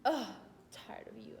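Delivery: mock exasperated groan into a complaint; mad kid, imitated. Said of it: "she was just so mad".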